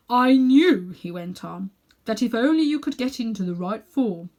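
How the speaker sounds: put-on self-important elderly uncle showing off; Uncle Andrew. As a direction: lecture the boy like a vain old magician. Uncle Andrew boasts of experiments.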